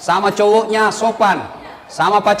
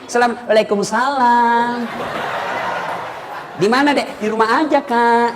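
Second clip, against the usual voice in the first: coy sweet voice. Shown as a demonstration. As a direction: answer the boyfriend coyly and sweetly. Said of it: "ndak berani itu laki-laki". (jawab telepon pacar dengan manja dan pelan)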